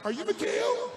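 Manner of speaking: a hint of a warm, disarming president; friendly Reagan. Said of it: "turned back around and said".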